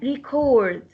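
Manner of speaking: "record" as a verb, weight on CORD; stress on second syllable. Shown as a demonstration. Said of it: "When we stress the second syllable".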